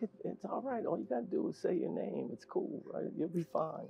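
retelling how you soothed a nervous colleague; soft pep talk under the breath; reassuring. Retold or imitated.

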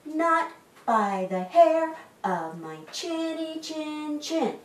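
high, slow piglet voice; little pig's high-pitched defiant refrain; shouting little pig. A narrator's reading. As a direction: refuse in a high, measured piggy voice. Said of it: "The little pig shouted".

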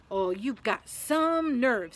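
slow, drawn-out, loud outrage; loud indignation. A narrator's reading. Ron reacts to Hermione's plan, loudly indignant. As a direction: stretch it out loudly, affronted. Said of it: "said Ron loudly".

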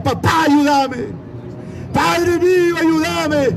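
preacher's mild mock yell for help; child's cry for help. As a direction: imitate a trapped boy calling to his father. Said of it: "el niño gritaba y decía".

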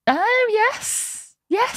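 high, eager yes; gleeful yes yes; excited. Real, not acted. Eager agreement to toast idea.

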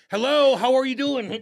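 high, loud, slow phone chatter; mock chatty driver. Mocking Andy driving while on the phone, a high hammed-up hello. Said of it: "is driving like this".

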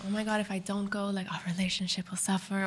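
hushed, whispery worry; worried inner voice. Retold or imitated. Wife asked to watch husband's game, hushed anxious thought. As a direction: voice a private worry under your breath.

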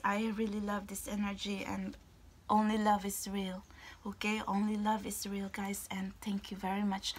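soft breathy whisper. Real, not acted. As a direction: whisper the goodbye gently.

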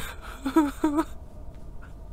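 breathy, voiceless nervous laughter. Acted. Shaken friend after the rescue, half-crying nervous laugh. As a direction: laugh off the panic, close to tears. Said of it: "That's why I'm laughing so much".

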